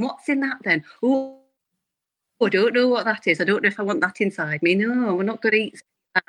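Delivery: northern shopper muttering over labels; northern character voice, mildly disapproving; Karen. Acted. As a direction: read labels aloud as a suspicious northern character. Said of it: "she comes out sometimes".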